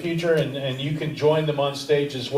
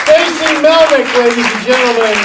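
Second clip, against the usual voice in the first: loud, higher announcer calls, names stretched out; stage announcer; 11 semitones higher, 10 dB louder than usual. Acted. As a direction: boom each name out to the room like an emcee. Host announces comics to stage.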